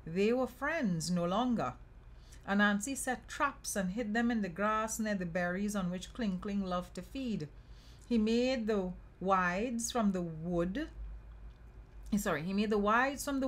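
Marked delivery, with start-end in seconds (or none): 0.1-10.9 measured, lilting storyteller voice; story narration. A narrator's reading. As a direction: read a folk tale aloud. Reads folk tale aloud.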